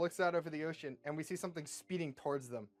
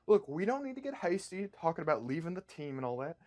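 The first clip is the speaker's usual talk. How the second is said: persuasive team leader pitching a job; a hint of a hustler's sales pitch; lightly voiced team leader; 3 dB louder than usual. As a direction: talk them round, punching up the big news. Rainbow Man pitches the gig.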